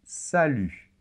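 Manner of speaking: Salut with a French u and a silent t; Salut, t kept silent; model pronunciation. Shown as a demonstration. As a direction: say Salut with no final t. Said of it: "il se prononce de cette manière".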